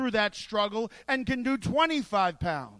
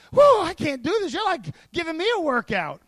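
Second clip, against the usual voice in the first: surprised therapist; 5 semitones higher, 4 dB louder, faster than usual. Retold or imitated. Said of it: "she's like".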